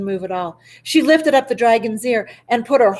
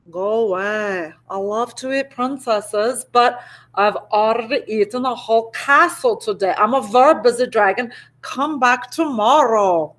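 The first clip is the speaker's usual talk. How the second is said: lightly voiced bored dragon. Dragon's lines read in voice.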